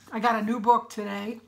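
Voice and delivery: raspy, rough throat; hoarse voice. Real, not acted. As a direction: speak through a hoarse throat. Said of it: "my voice sounds so bad".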